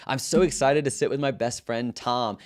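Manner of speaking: high, loud, sugary fake-excited teen voice; mock excitement. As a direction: gush over your best friend, dripping with mockery.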